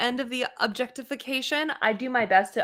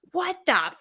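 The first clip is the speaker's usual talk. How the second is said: high-pitched, hammed-up indignation; mock outrage; 9 semitones higher than usual. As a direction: act scandalized, pitched well above normal talk. Acts out reaction she would not have.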